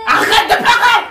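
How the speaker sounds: high-pitched shouted order; exasperated shout. Real, not acted. Adult telling a child to stop crying, exasperated shout. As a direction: cut through the crying with a yell.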